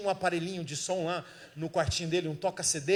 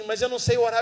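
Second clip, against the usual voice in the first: mock exclaimed protest; 3 semitones higher, 7 dB louder, faster than usual. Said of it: "E ele disse assim".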